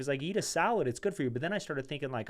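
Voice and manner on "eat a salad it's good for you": high, loud singsong mock of the advice. Mocking what everyone always told him, high and loud. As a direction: parrot the old advice, pitched way up.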